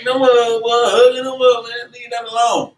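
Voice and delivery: high, mocking voice of a busybody brother; mock gossip. Preacher mocking a gossip who judges a brother's shirt, high and sneering. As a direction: sneer it like a nosy church gossip.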